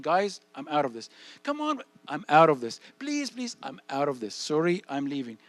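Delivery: loud, firm refusal, pitch jumping on the pleas; firm exit. Pretend. Kid to pushy friends, loudly refusing to stay. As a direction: insist on leaving, raising the voice. Kid leaving peer pressure.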